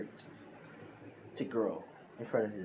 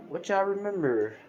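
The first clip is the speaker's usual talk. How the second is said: Deku's question; 9 semitones higher, 5 dB louder than usual. Acted. Deku questions the grown kids.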